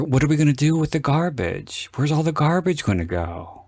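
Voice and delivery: a hint of a sitcom comic fretting; unwitting Seinfeld. Retelling a film character's garbage worry, lightly Seinfeld-like. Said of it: "You sound like Jerry Seinfeld".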